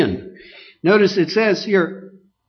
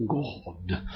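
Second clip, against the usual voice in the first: much lower and softer drawn-out God; mock the trained holy-voice God; mock pious God; 11 semitones lower, 12 dB quieter than usual. Preacher mocking trained pious prayers, mock holy intonation. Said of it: "you have to go to school for years to say".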